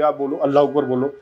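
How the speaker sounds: a pushy demand to say it live on air; mock forced order. Shown as a demonstration. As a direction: lightly voice a host forcing the words. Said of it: "मैं कहूँ, "चलो जी, इसी news channel पे live है". (ज़बरदस्ती बुलवाने का हल्का नकली अंदाज़)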